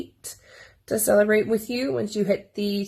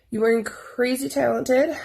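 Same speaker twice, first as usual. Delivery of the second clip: "crazy" lifted in pitch; stress on CRAZY; 4 semitones higher than usual. Real, not acted. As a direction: lean on the word "crazy". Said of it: "emphasis on the crazy".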